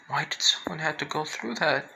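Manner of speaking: whispered, a touch tearful. Retold or imitated. Toga crying for the girl, tearful whisper. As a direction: whisper it through tears. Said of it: "And then she starts crying again".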